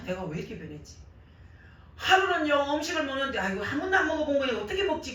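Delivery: normal talking voice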